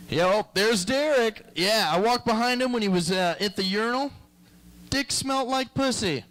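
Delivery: hammed-up dumb boss impression; imitating the manager. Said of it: "my manager goes".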